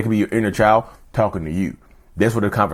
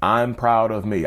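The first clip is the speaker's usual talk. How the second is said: self-praise; slower than usual. Shown as a demonstration. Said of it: "I say it out loud".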